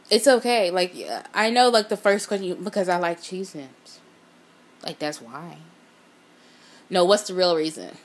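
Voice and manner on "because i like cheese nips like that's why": mock lame excuse.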